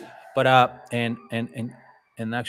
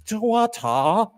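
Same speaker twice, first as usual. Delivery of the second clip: slow, higher mock British accent; 8 semitones higher, slower than usual. Host retrying the British challenge, slow mock British accent. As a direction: stretch the word water in mock British. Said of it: "Do bottle of water".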